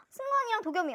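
high, loud delighted cry; thrilled reveal. Real, not acted. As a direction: squeal the names in joy. Reveals two member cards.

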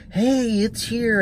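high-pitched imitated hail to a driver; mock calling out. Woman directing the arriving driver, mock calling out. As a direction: imitate her eager, high "over here" call. Retells woman waving him over.

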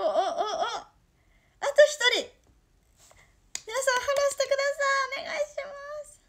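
high, loud, eager begging; excited pleading. Real, not acted. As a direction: plead brightly for a follow. Begging for one more follower.

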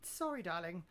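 flustered denial. Real, not acted.

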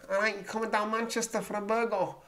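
high-pitched Mancunian; Manchester accent. Acted. Vlogger imitating people from Manchester, Mancunian accent. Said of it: "include people from Manchester".

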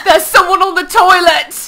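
high, loud comic outcry; mock-alarmed shout. Real, not acted. Player spotting someone on the toilet, mock-alarmed shout.

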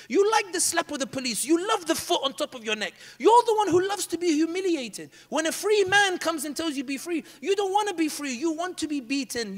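high, loud scolding; raging at the café crowd; angry rant. Retold or imitated. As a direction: berate them in open contempt. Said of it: "And I got really angry".

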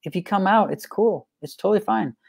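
put-on calm and friendly with a toddler; dad calmly explaining bedtime rules to his son; gentle dad voice. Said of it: "I'm like".

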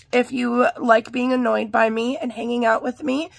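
rough, gravelly hoarse voice. Real, not acted. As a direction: talk through a hoarse throat. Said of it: "not have such a Billy Goat gruff voice".

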